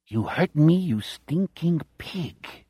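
put-on a growl in a plain Chicago accent, dropping soft. A narrator's reading. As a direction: spit it out like a Chicago thug. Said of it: "In his Chicago voice".

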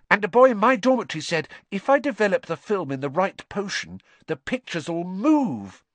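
high, eager schoolboy gushing; Colin Creevey. A narrator's reading. Colin telling Harry he knows all about him, eagerly. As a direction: gush like a starstruck little fan. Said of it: "said Colin Creevey eagerly".

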